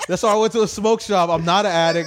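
loud, high, laughing protest; laughing denial. Real, not acted. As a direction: laugh it off loudly.

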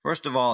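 Palms said like the trees, no L-sound fuss; corrected name. Acted. Jack correcting Al on his name, firmly. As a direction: say "Palms" plainly, like the palm trees. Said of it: "it's pronounced palms".

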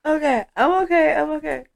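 catching breath after laughter; winded from laughing; after laughing hard. Real, not acted. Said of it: "think my tissue's destroyed".

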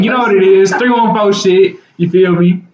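slow, low Texan drawl on the hometown brag; Texan accent. Retold or imitated. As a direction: lay on a light Texas accent. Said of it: "And then he said it with a Texan accent".

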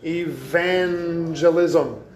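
"Evangelism" stretched slowly on the second syllable; drawn-out word. Shown as a demonstration. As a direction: draw out "Evangelism" to echo a related word. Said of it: "what does that sound like?".

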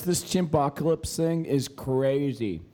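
talking around ice in the mouth; words blurred by a mouthful of ice. Real, not acted. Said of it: "I have ice in my mouth".

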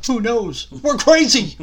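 host's wild yell hyping the segment; excited yell. Real, not acted. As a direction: whoop it out like a madman.

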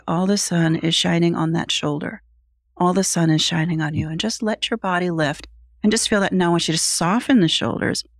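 calm, even visualization voice; guided imagery. Acted. Coach guiding Adam through sunlight imagery, calmly. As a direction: paint the sunshine gently.

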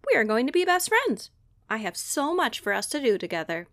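put-on fast, eager little girl; impatient girl. Sasha hurries her new sloth friend, fast and eager. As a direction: rush it, too excited to wait.

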